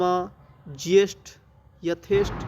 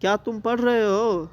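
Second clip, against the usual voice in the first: asking a question; 4 semitones higher, 3 dB louder than usual. Shown as a demonstration. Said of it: "प्रश्नवाचक, जिसमें प्रश्न का बोध हो".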